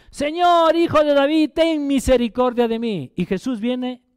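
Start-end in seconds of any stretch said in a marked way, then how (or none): 0.1-3.1 high pleading call to the Lord; woman begging Jesus for mercy, crying out. Retold or imitated. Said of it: "comienza a dar voces".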